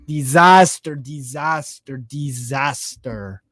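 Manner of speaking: dramatic disaster, fading to a mutter; fading dramatic repeat. Real, not acted.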